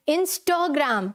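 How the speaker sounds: Instagram slowly as "in-stho-gram"; rounded h-coloured "stho" in the middle of Instagram; corrected pronunciation. Shown as a demonstration. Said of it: "थ है".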